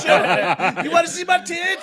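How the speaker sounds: high-pitched rowdy party call; mock flasher's holler. Suggested reply to honking drivers, mock rowdy holler.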